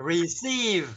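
receive said slowly, ee drawn out; slow stretched receive. Shown as a demonstration. Teacher models receive, slow and stretched. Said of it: "kéo dài ra như thế".

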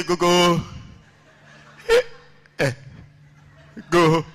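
hammed-up stammer with blocked syllables; stammering teacher. Stammerer introduces himself to his class, mock stammering. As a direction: get stuck on syllables, then force them out. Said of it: "he's a conch stammerer".

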